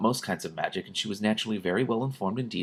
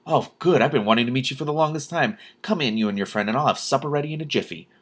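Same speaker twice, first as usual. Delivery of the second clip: delighted; 5 semitones higher than usual. Acted. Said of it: "in an entirely different manner".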